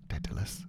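Dedalus as DED-lus, tried out under the breath; soft DED-lus for Dedalus; trying a pronunciation. Shown as a demonstration. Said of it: "Let's stick with Dedalus".

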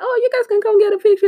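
high, loud, fast invitation; excited high-pitched impression of a celebrity; gushing welcome. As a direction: imitate a gracious star in a high, rushed voice. Acting star welcoming fans.

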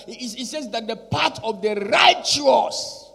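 loud, emphatic sermon delivery; full-force preaching. Acted. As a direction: proclaim it with rising conviction.

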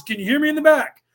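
playing the cocky suspect in the lineup; mock lineup line. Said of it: "he goes".

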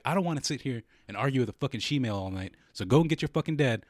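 emphatic mock tirade; retold rant. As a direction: re-enact telling off an opponent. Re-enacts his rant at her.

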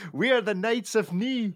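high-pitched comic knight voice. Acted. Quoting Monty Python to co-hosts, high mock-knight voice. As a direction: put on a high, silly knightly demand. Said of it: "they can quote this by word".

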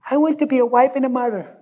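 high-pitched imitation of a little child; sweet five-year-old girl. Five-year-old girl answering what she wants to be, in a sweet child voice. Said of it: "In a sweet little redheaded five-year-old voice".

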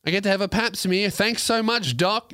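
mock grateful. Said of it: "No one's like".

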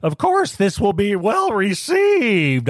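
high, slow, overconfident self-assurance; mock-smug like a clueless dope; smug and naive. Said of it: "like a fucking dope".

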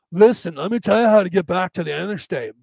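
put-on surfer-bro accent giving directions; hammed-up surfer voice; surfer dude. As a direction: explain it like a California surfer dude. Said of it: "the surfer dude".

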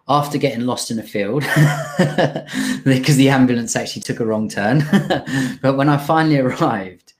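chuckling through the words; amused, laughing retelling. Real, not acted. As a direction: laugh as you tell it. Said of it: "laughs through story".

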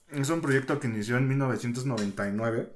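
talking while chewing an apple; mouth full. Real, not acted. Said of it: "perdón, es que estoy comiendo una manzana".

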